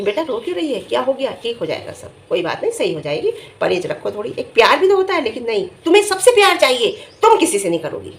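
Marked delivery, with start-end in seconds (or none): 0.0-4.3 mild show of affectionate reassurance; tender comforting, as a demonstration; lovingly. Shown as a demonstration. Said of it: "प्यार से नहीं पूछा".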